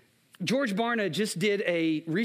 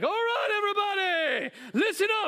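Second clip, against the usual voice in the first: put-on Samoan accent; 12 semitones higher than usual. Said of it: "That's my Samoan accent".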